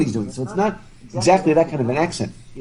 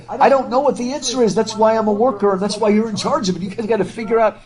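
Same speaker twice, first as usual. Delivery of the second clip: voicing Stephen; 8 semitones higher than usual. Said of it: "he even says to, to Bounderby".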